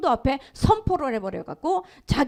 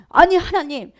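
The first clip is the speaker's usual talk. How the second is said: raised, louder protest to God; retold anger, a bit louder; indignant protest; 4 semitones higher, 5 dB louder than usual. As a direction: push back in disbelief. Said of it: "목사님이 화가 난 거예요".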